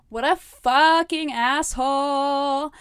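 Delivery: a real outraged shout at the character; outraged outburst. Real, not acted. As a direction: blast it out in real disgust. Outraged reaction to quote.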